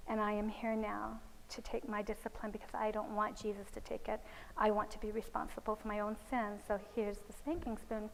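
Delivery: retold softly, a touch subdued; quiet, earnest owning up, voiced lightly; solemn child's confession. Little boy confessing to his caregiver, solemn and soft.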